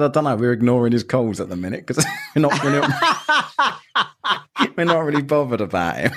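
North Korea's reply, shouted through laughter; mock shouted brush-off, cracking up; laughing mock quote. Podcaster mocking North Korea's reply to Biden, laughing shout.

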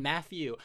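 "Matthew" said as "Maffew". Shown as a demonstration. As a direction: put an F for the TH in "Matthew". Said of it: "they come out like F's".

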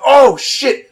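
high, loud mock cry; retold pained shock. Jumper hit in the eye, mock pained yell. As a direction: yelp it like you've been hit.

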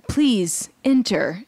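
slowly stretched welcome; drawn-out invitation. Retold or imitated. Mysterious host inviting ogres inside, drawn-out and slow. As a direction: draw both words out slowly.

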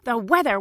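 "The weather." repeated with sarcastic fall; mocking repeat. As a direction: scoff at "weather". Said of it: "He said".

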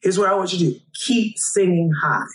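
lightly acted comforting, slowing into the advice; retold reassurance. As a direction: imitate an uncle calming an upset child. Uncle reassures crying child in story.

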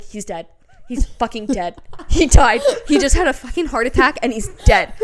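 from hushed shock building to loud alarm; mounting retold horror; dawning panic. Retelling realising husband is dead.

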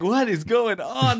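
put-on high, drawn-out child's voice; slow, high and baffled, like a small kid; bewildered little daughter. Small daughter reacting to dad's screaming, bewildered.

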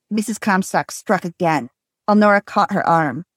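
reading a novel aloud with light character voices; story reading. Acted. Host reading a novel aloud to co-hosts, story narration. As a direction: read the scene to your co-hosts, lightly dramatized.

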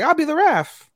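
very high-pitched put-on girl's voice; eager volunteer. Host acting friend offering to referee, high eager voice.

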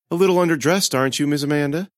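lightly voiced creep sizing her up; sneering Gomez. A narrator's reading. Gomez leering at the underdressed girl, sneering.

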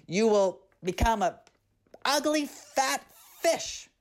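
put-on mother cursing her careless child, angry scolding. A narrator's reading. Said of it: "Her mother screamed in anger".

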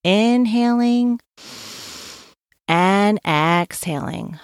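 calm breathing guide; guided breathing. Shown as a demonstration. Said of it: "Let us begin to breathe".

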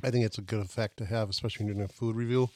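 talking through a mouthful; mouth full. Real, not acted. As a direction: speak while chewing a bite. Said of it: "I'm gonna talk with my mouth full".

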